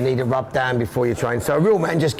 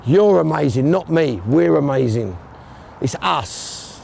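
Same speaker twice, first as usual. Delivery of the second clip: rallying speech to team; 6 semitones higher than usual. Real, not acted. Addressing the squad in team talk.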